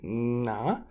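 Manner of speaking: "na" with a palatal ny sound, slowly; wavy N. Shown as a demonstration. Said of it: "the N with the wave".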